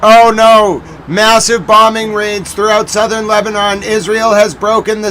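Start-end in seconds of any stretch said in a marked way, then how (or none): 0.0-0.8 dismayed cry. Real, not acted. Reacting to strikes on screen.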